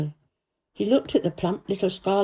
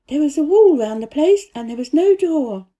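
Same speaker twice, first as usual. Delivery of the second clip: put-on lightly higher girl's voice, earnest; a girl telling the gardener about the secret garden, higher voiced; young Mary voice; 7 semitones higher, 7 dB louder than usual. A narrator's reading. Mary's voice in the story.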